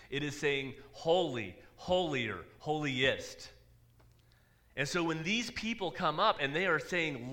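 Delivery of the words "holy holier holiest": separate, firm beats on "Holy, holier, holiest"; building emphasis. Shown as a demonstration. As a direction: stress each of "Holy, holier, holiest" with a falling tone. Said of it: "it is adding emphasis to it".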